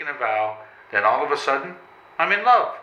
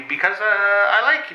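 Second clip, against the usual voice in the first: a nervous giggle through the confession; laughing shyly; 6 semitones higher than usual. Acted. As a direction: laugh it out, embarrassed. Shy confession of love.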